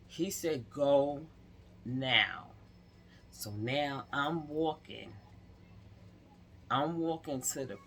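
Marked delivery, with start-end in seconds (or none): 0.7-2.5 firm command. Retold or imitated. Father commanding her to go.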